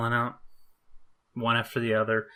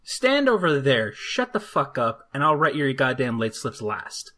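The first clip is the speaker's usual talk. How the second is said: stern order; 4 dB louder than usual. Retold or imitated. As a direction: bark them into line. Ordering the late kids around.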